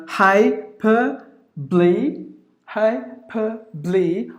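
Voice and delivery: "hyperbole" as hai, per, blee; slow, broken-up "hyperbole" ending in blee; schwa left out. Shown as a demonstration. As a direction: say "hyperbole" in three separated syllables. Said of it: "it is optional".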